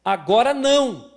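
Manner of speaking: slow, loud refusal; slow, loud parent saying no; firm no. Acted. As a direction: refuse firmly and slowly.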